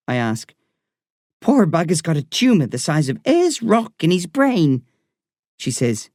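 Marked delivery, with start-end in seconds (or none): 1.4-4.8 put-on Irish woman doctor talking to a boy patient. A narrator's reading. Doctor voiced in story.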